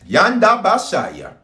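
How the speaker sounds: slow tongues utterance; speaking in tongues. Real, not acted. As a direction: pray out in tongues.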